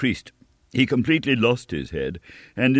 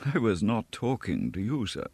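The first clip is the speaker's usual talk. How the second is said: softer, cool and dismissive; amused contempt; 7 dB quieter than usual. A narrator's reading. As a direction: brush him off with disdain. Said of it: "in a tone of amused contempt".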